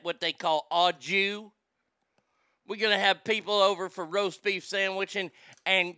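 imitated rambling Southern lady; Southern drawl. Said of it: "coming from a person from the South".

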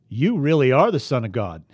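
loud amazed exclamation; exclaiming. Acted. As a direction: burst out in awe. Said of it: "they exclaimed".

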